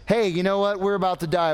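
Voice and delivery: a touch of urgency, pitch starting to lift; mild rising alarm. Acted. Disciples taking turns warning Jesus, mild alarm. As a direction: begin the panic, still fairly contained. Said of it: "Maybe it heightens".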